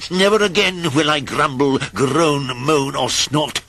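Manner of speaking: solemn promise. Acted. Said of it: "made a solemn promise".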